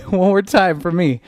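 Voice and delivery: cheerful shout with a laugh; rally the class, upbeat; teacher cheering the class on; excited call. Real, not acted.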